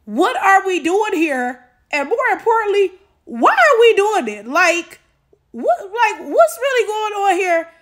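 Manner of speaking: disbelieving outburst; indignant rant. Real, not acted. Outraged rant at her comment.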